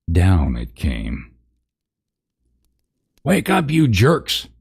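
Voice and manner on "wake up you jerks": high, slow, strained harsh shout; a shrill first try at the narc; first harsh snarl. Acted. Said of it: "snarled a harsh voice".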